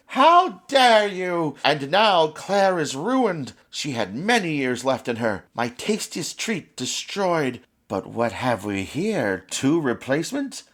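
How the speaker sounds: a witch robbed of her treat; wicked witch fury. Acted. Witch Sabine furious at the shattered child. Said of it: "Sabine sounded more and more wicked".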